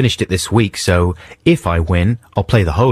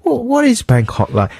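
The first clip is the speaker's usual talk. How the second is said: mock tourist. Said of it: "goes up to someone else and goes".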